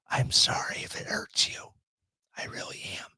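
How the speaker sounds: mock-sincere whispered apology. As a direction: breathe it out as a hushed aside. Mock apology to hurt listeners.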